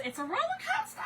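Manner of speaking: high, teary laugh through the words; half laughing, half crying; choked laugh-cry on roller coaster. Real, not acted. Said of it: "one minute I'm crying, one minute I'm laughing".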